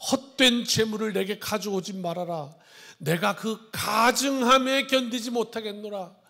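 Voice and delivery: formal, measured Bible reading voice; solemn scripture reading. Acted. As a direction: read it out like holy writ from the pulpit. Rereads verse thirteen.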